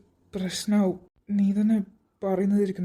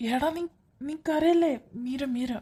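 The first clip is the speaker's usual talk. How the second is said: fighting back tears; tearful, choking up; 4 semitones higher than usual. Acted. Brother tearfully consoling a friend over the death, choked voice. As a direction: voice breaking with tears, pitch climbing. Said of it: "ചേട്ടൻ എന്തിനാ കരയുന്നേ?".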